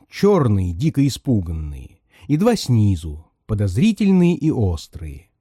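ordinary delivery, nothing marked

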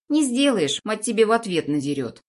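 put-on high bratty boy taunt; cheeky kid voice. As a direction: sass him back like a spoiled kid.

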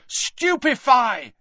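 high, drawn-out yell; yelled spell. A narrator's reading.

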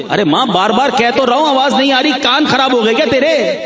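fast, snapping mock irritation; lightly voiced son losing patience; irritated son. Annoyed son snaps at his old mother, fast mock irritation. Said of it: "غصہ آ گیا".

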